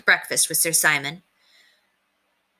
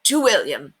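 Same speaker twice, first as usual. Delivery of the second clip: toast shout. A narrator's reading. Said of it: "he shouted".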